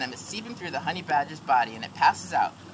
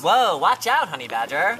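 bird voice; 5 dB louder than usual. Acted. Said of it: "A bird nearby says".

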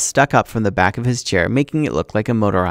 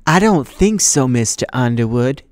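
cold teacher; 2 semitones higher than usual. Acted. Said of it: "she said".

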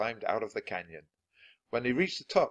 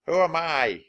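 higher, loud call into the canyon; shouting; 8 semitones higher, 9 dB louder than usual. Acted. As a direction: cup hands and shout "Who am I?". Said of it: "he shouted".

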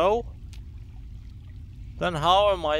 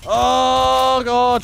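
scream into giggles; 7 semitones higher, 10 dB louder than usual. Real, not acted. Sudden enemy attack in game.

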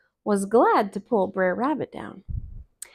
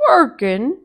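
Brer Bear; 3 semitones higher, 8 dB louder than usual. Acted. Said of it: "said Brer Bear".

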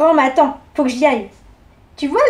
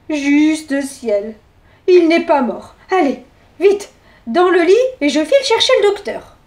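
lightly voiced granny, quicker; bustling old lady in a hurry; Mère Grand hurried; 2 semitones higher than usual. Grandma hurrying the dog to bed, fast.

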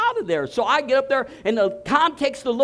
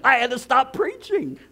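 laughing it out; preacher laughing as the spirit takes him; 3 semitones higher than usual. Real, not acted. Scene: preacher tells the congregation, laughing.

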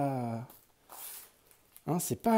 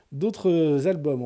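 laughing; 4 dB louder, much slower than usual. Real, not acted. Laughs while suggesting new albums.

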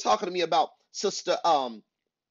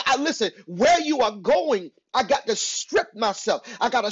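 punched, insistent preacher delivery; emphatic preaching; 5 semitones higher than usual. Real, not acted. Preacher telling listeners who is challenging them, emphatic preaching. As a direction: press each phrase on the listeners.

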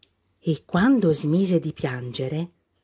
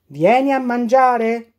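dad calling; 5 semitones higher, 4 dB louder than usual. A narrator's reading. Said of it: "gridava il papà".

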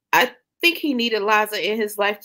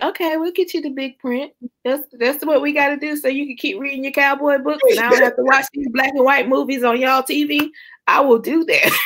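higher-pitched, placating quote of yourself; retold eager reassurance; 7 semitones higher than usual. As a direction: act out promising to indulge an older relative. Retold eager promise to relative.

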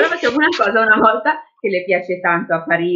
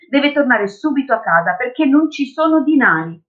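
lightly voiced insistent girl, rising higher; earnest child, insistent; 5 semitones higher than usual. Girl shows the policeman her dad's portrait, insistent.

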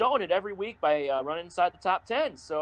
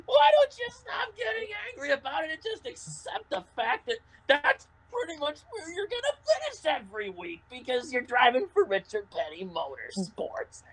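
mock scold; 8 semitones higher than usual. Mock scolding the crying driver.

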